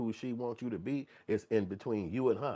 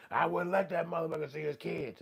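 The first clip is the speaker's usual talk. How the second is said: mock judgmental stranger; 8 semitones higher than usual. Stranger judging on street.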